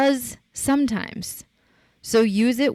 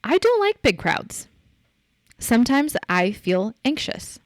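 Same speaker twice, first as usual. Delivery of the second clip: self-owning statement; 3 semitones higher than usual. Shown as a demonstration. Podcaster showing listeners how to own their limits, confidently. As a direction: say it as a plain fact about you. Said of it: "Say it like this".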